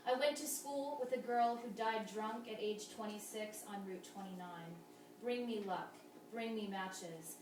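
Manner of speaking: measured verse with pauses between images; even, deliberate poem recital; poetry reading. Acted. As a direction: read each line as verse, letting the endings fall.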